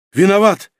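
high loud frightened cry; shouted apology. A narrator's reading. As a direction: yell it out, bowing fast. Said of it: "выкрикнул он". (испуганный выкрик, высоко и громко)

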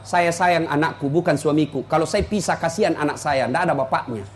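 low, hushed confession; patient resignation. Retold or imitated. Betrayed wife confiding she stays for her child, quiet resignation. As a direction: softly voice a long-suffering wife, pitch dropped. Voices long-suffering wife's patient reply.

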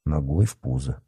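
low, soft threat; quiet aside. A narrator's reading. Boy adds a kick to his threat, quiet aside. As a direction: say it under your voice to a friend. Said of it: "тихо сказал Никита Артёму".

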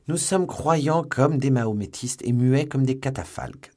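high, loud mock-solemn pledge; emphatic assurance. A narrator's reading. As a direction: swear it with exaggerated emphasis. Athos pledges belief and silence.

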